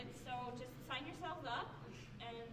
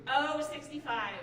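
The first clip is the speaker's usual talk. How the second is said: bingo caller; 8 dB louder, slower than usual. Shown as a demonstration. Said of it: "I could actually be a bingo caller".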